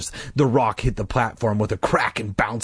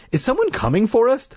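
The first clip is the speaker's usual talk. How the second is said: high, raised call; 12 semitones higher than usual. A narrator's reading. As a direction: call out to the driver. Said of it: "I called to him".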